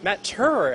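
Turner said as Turer, with no N sound; name said correctly. Shown as a demonstration. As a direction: Turner spoken as two syllables Tur-er, no N. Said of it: "take out the N".

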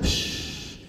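hushing noise. Acted. Imitates sudden rumbling sound.

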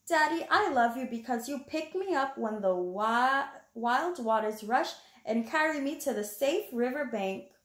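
put-on reading to children. Reading the picture book aloud.

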